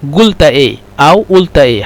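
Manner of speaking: first قلت with a hard g, then with a glottal stop; qaf as g then glottal. Shown as a demonstration. Teacher contrasts Saudi g and Cairo glottal qaf. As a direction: contrast قلت as gult and ult.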